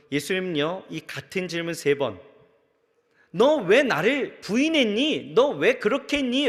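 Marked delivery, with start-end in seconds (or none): 3.3-6.5 slow, a touch of Jesus rebuking; hint of a hurt rebuke, held back; mild reproach. Preacher voicing Jesus scolding Peter, mild slow reproach. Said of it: "질책하시는 것보다".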